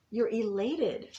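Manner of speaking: ordinary delivery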